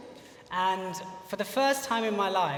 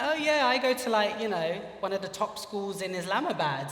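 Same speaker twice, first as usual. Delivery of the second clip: put-on American accent. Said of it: "he spoke a bit with an American accent".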